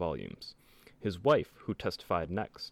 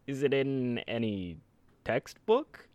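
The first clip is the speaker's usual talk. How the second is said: put-on old-timey voice; 2 semitones higher, slower than usual. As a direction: ask it like an old-time courtroom prosecutor. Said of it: "the prosecutor in an old-timey voice".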